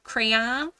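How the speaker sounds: "Crayon" as cray-AN, rising like a question; questioned pronunciation. Shown as a demonstration. Quiz taker doubting the other version, "Crayon" as cray-AN with a rise. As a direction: query "Crayon" with an AN ending. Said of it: "But not like crayon".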